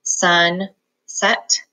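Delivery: "Sun" then "set" apart; each part on its own; slow decoding; syllable split. Shown as a demonstration. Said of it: "split between these two consonants".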